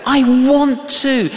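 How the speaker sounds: put-on childlike insistent pleading; pleading protest. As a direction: beg to keep serving. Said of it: "I said".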